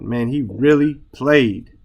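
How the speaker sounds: REALLY drawn out for emphasis; emphatic stress. Shown as a demonstration. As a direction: lean slowly on "really played". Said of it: "It's just due to emphasis here".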